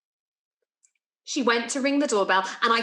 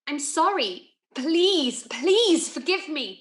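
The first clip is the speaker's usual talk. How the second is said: begging for forgiveness, drawn out; pleading apology; 3 semitones higher, slower than usual. Acted. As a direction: plead with him. Begs Graham for forgiveness.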